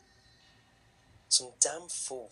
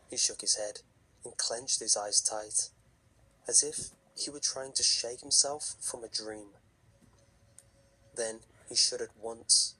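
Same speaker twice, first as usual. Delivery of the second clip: story narration. A narrator's reading. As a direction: tell it like a campfire horror story.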